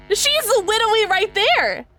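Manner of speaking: exclaiming. Real, not acted. Player protests at the game.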